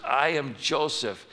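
slow, deliberate reveal; Joseph revealing himself. Acted. Joseph telling his brothers who he is, slow and steady. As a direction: say it slowly and plainly. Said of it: "Joseph says to his brothers".

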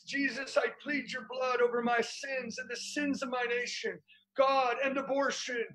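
model prayer. Shown as a demonstration. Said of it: "I want you to say it".

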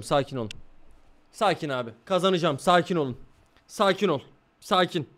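hushed, repeating sakin to settle down; soft self-calming. Real, not acted. Streamer calming himself during the race, hushed and soft. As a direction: talk yourself down quietly.

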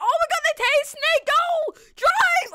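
one sharp high yell; urgent shout. Real, not acted. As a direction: bark the order in a panic. Fleeing police, urging driver.

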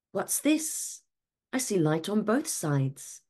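lightly voiced planet, high and puzzled; a hint of a startled Earth noticing light; surprised Earth.

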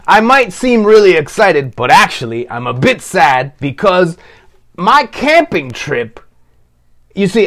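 put-on a puppet telling the kids it feels a little sad; lightly voiced puppet, a bit sad. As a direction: puppet gently explaining the camping trip is ending. Curtains puppet, sad about the trip ending.

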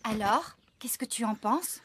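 murmurer la question tout bas, sans voix; chuchoté. Acted. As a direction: souffler la question en confidence. Confidence près de Max au travail. (chuchotement discret)

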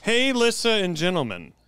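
high, loud, stretched announcer opening; over-the-top greeting. Pretend. Host opening a listener letter, over-the-top greeting. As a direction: hail the crowd, drawing out each word. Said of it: "That's fucked up".

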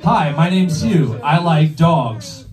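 slow, deadpan dating-profile read; profile blurb. Shown as a demonstration. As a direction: read it like a bland bio. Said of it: "my profile said".

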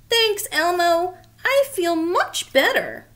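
lightly voiced Abby feeling better; a hint of a little fairy thanking a friend.

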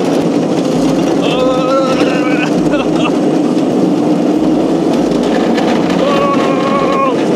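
high, drawn-out wail of laughter; long whooping laugh. Real, not acted. Driver jolted on a bumpy cart, long high laughing wail. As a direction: laugh helplessly while being jolted.

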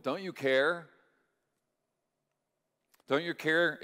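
desperate plea. Acted. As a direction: shout it up at a sleeping Jesus, begging. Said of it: "and they say".

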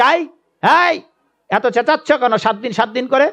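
high, sharp-voiced demoness; demoness scolding.

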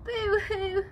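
mock sob, boo-hoo; blubbering. Wallaby crying back to his mum, mock blubbering. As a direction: blubber like a sulky joey. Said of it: "Willoughby Wobbly blumbers".

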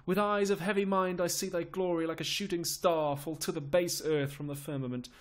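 declaimed sorrow, subsiding at the end; lamenting Lord Salisbury. Acted. Salisbury foresees Richard's fall, lamenting.

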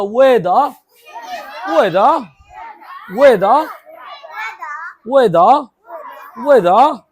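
a class yelling weather back at once; chorus shout. Real, not acted. Pupils repeating weather after the teacher, loud in chorus.

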